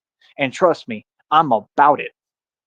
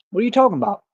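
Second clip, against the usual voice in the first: pitched up high in disbelief; incredulous; 7 semitones higher, much faster than usual. Real, not acted. Ranting at online critics, incredulous and high. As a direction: scoff at the absurd claim, voice jumping up. Rant, scoffing at critics' claim.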